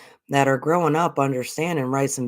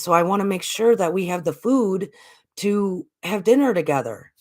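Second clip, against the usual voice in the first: higher, a lightly voiced earnest child; little boy; 5 semitones higher than usual. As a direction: gently play the boy explaining about dinner. Boy explains his choice.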